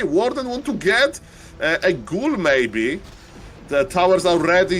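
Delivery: usual speaking voice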